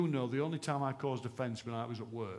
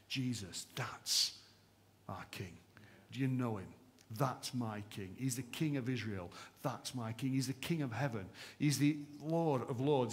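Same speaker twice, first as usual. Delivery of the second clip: rhythmic declaration. Acted. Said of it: "Let me read to you this sermon declaration".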